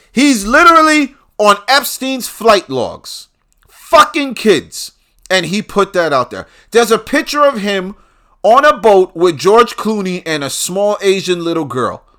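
loud, high-pitched indignation; outraged rant. Real, not acted. Host ranting about a man's hypocrisy, outraged. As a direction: raise the pitch and volume in disbelief.

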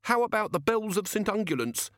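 high, pleading little gnome; desperate gnome. A narrator's reading. Gnome begs Ridcully to hear its bells, high and desperate. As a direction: make a last high-pitched offer. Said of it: "said the gnome desperately".

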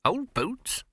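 high, tiny mouse voice; squeaky mouse voice. Acted.

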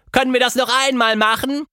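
hoch und schnell, ganz aufgekratzt; aufgeregte Bitte. A narrator's reading. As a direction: atemlos vor Begeisterung nachfragen. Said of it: "schrie sie". (schnell und hoch vor Aufregung)

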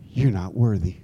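low, subdued devil's voice; accusing devil. Acted. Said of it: "the devil comes in and he goes".

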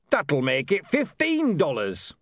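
put-on slow, sly old beggar haggling; lightly voiced legless beggar miscounting money; Arnold Sideways. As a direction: drag it out like a crafty old codger.

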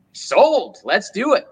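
high eager yes; instantly sold. Retold or imitated. Nineteen-year-old accepting the study tour, eager and high. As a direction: jump at the offer, pitch way up. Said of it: "So I'm like".

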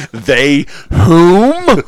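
very high, loud haughty question; mock posh again.

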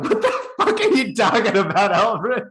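laughing through the words; half-laughed disbelief at Alfred; laughing outburst. Retold or imitated. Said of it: "And I'm like".

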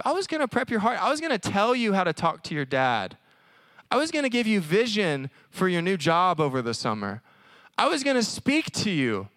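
lightly voiced God. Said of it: "God's like".

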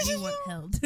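put-on high, squeaky baby caveman voice; caveman baby talk. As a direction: whine it like a needy toddler. Caveman baby talk after laugh.

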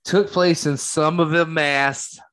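put-on weak Boston accent, slow; a half-hearted Boston accent. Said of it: "was my Boston accent".

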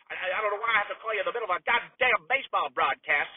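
stammering, exasperated complaint; flustered anger. Acted. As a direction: sputter with indignation. Flustered complaint to nephew mid-broadcast.

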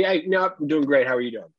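high, bright-on-purpose chipper greeting; upbeat polite small talk for a delivery guy; customer service voice. Retold or imitated. Driver greeting the store shopper in a high upbeat customer service voice. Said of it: "The customer service voice, right? It was high and upbeat and positive".

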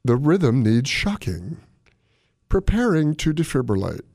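slow, measured machine announcement; deliberate automated prompt with pauses; imitated defibrillator voice. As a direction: talk like an automated device, phrase by phrase. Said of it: "and it's like this".

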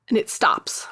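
whispered, low narration; dramatic hush. A narrator's reading. Game master narrates the wheel landing in a dramatic whisper. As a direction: drop to a whisper as the wheel stops.

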